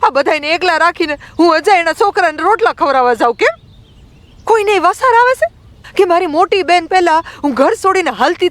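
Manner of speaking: put-on very high, indignant girl's voice; acted angry young girl taking on the elders; angry outburst. A narrator's reading. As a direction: pour out indignant questions in a high pitch. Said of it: "Rambai ગુસ્સામાં બોલવા લાગી".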